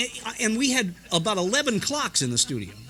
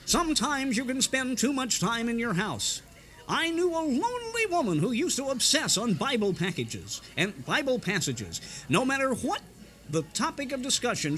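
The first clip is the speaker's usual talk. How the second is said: higher-pitched radio preacher retelling a parable; lightly voiced radio sermon; Oswald Hoffman sermon; 6 semitones higher than usual. A radio preacher telling his congregation a story, mildly preachy. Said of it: "it was Oswald Hoffman who said".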